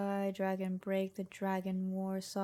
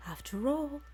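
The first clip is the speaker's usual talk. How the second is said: higher mocking demon voice; gloating Dremora; 6 semitones higher than usual. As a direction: taunt the dead boy. Demon mocks corpse.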